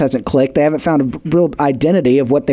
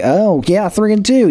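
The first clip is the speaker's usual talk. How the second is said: higher, bright mock cheer; mock impressed; 5 semitones higher than usual. Fan proudly touting a winning record, mock impressed and higher. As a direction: sound like a fan who's thrilled with the record. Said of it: "You're like".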